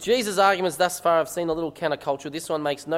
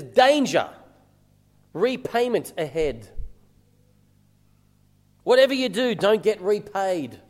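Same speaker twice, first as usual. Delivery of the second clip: emphatic, measured warning, key words punched louder; warning sign; 3 semitones higher, 3 dB louder than usual. Acted. Preacher reading out Jesus's warning sign to the congregation, emphatic warning. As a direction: sound a warning, with weighty pauses. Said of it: "putting a big warning sign up".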